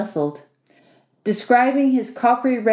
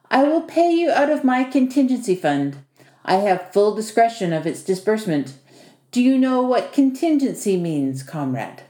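a touch of self-important comrade; Vasily; 2 semitones higher than usual. Acted. Host explaining pay to his new helper, lightly officious. Vasily's dialogue voiced by narrator.

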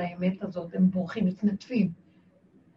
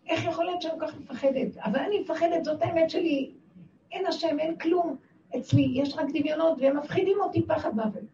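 higher-pitched fearful pleading; acted plea, pitched up without shouting; retold cry to God; 5 semitones higher than usual. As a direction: confess the fear in a raised, urgent voice. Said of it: "התחלתי לצעוק, "אבא".

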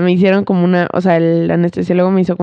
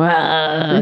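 imitated bawling "ah"; drawn-out fake sob; mock crying wail; 2 semitones lower than usual. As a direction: pretend to keep crying. Acts herself crying on the table.

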